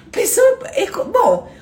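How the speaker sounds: high-pitched laughter through the words; laughing. Real, not acted. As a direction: crack up mid-sentence.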